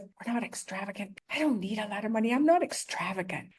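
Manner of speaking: mock inner voice. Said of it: "Mine come in the other day with".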